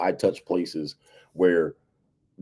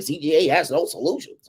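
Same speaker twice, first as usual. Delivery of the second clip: higher, mocking critic voice; imitated complainer in a raised pitch; mock detractor; 7 semitones higher than usual. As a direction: parrot a naysayer, pitched up. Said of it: "looking for a way to argue".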